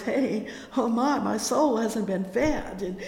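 imagined cry of need. Pretend. Preacher voicing a neglected believer's realization, loud and pleading. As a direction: cry out like a thirsty soul. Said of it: "you're gonna realize".

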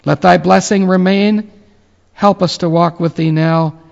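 ordinary talk, nothing marked

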